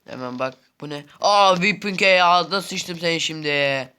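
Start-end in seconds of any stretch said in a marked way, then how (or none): 1.2-3.9 loud, slow gloating; excited taunt. Real, not acted. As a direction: crow over the enemy. Gloating over enemy in game.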